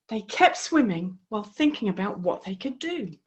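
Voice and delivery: put-on lively storybook voice for young listeners; reading to children. A narrator's reading. A host reading the frog story to children, lively. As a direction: tell the frog tale with bright expression.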